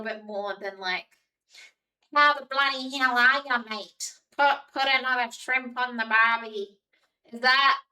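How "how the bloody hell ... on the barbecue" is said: put-on a light ocker Australian accent; hammed-up Aussie bloke accent; playful mock Australian accent. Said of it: "how do you find that accent?".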